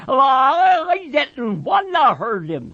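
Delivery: put-on sobbing, childlike protest; crying. A narrator's reading. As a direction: blubber it out, stumbling on the start. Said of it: "Lenny cried".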